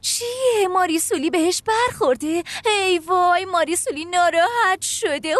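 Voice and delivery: mocking. Teen mocks stepmother's hurt feelings.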